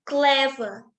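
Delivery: "clever" with a firm, falling stress on its first syllable. Shown as a demonstration. Presenter repeating an example of first-syllable stress, "clever" stressed at the start. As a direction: lean on the first syllable of "clever", let the second drop. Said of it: "this is stress on the first syllable".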